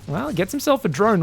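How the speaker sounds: ordinary talk, nothing marked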